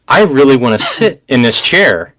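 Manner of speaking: a grown man coveting a chair, hammed up; mock Picard wanting the chair. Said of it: "but he's like".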